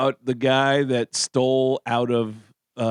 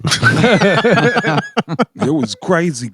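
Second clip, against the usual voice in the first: slow, stretched and louder, mock serious; drawn-out deadpan; 5 semitones higher, 5 dB louder, much slower than usual. Imitating a friend, slow and stretched for effect. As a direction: drag it out like a stoned friend. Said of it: "he just eyeballed me and he just went".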